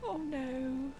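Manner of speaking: hushed dread in a dark basement; scared whisper. Real, not acted. Gamer creeping through a basement, whispered dread. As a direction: breathe it with no voice.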